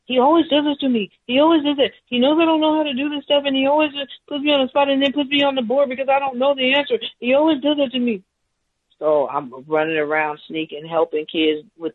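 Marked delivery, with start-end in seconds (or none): 0.1-8.2 high, fast imitated child complaining; upset child. Child complaining to her about the teacher, high fast imitated whine. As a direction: whine it like a hurt kid telling on the teacher, pitched way up. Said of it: "One child came up to me saying".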